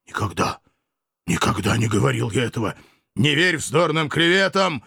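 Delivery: mildly frightened denial; fearful mumble. A narrator's reading. Accused man denies the slander to Sulla, mumbling in fear. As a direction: protest with a touch of rising fear. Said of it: "пробормотал Грани, всё более поддаваясь страху".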